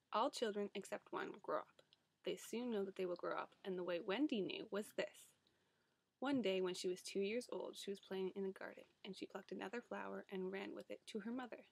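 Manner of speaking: reading aloud from a book; story reading. Acted. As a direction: read like a storybook. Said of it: "read a passage from a book".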